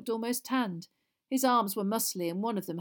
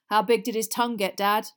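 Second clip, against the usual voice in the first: a touch louder, eager curiosity; 2 semitones higher, 8 dB louder than usual. A narrator's reading. George asks his dad about the prank, eager. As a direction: ask Dad keenly. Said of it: "George asked eagerly".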